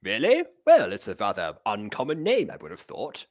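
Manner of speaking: British gentleman. Pretend. Plays Emil, the British time traveler.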